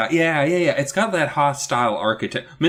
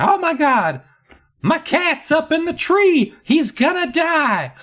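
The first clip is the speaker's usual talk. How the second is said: very high, hammed-up wailing; squealing mock hysteria, high and frantic; hysterical neighbor; 4 dB louder than usual. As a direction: shriek in theatrical panic. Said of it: "runs up to Eddie in a panic".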